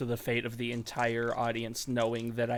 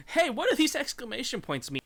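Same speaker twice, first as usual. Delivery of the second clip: mock car voice; 10 semitones higher than usual. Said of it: "and is like".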